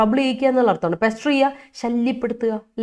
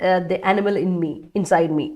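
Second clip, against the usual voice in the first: slow quote; much slower than usual. Retold or imitated. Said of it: "പറയുന്ന കേട്ടില്ലേ".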